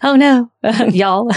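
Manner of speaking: playful Louisiana mom in a Southern accent. Shown as a demonstration. Daughter mimics mom on request, laughing Southern accent. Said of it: "Say it in a Southern accent".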